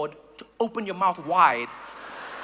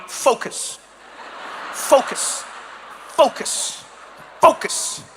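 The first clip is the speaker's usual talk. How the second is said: mock intense focus; 4 semitones higher, much slower than usual. Mocking serious Dutch cyclists.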